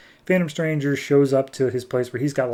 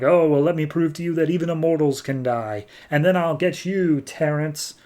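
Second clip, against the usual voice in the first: higher-pitched taunting villain; hammed-up villain's warning; villainous threat; 4 semitones higher than usual. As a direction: gloat over the coming kill. Highwayman threatens to kill hero.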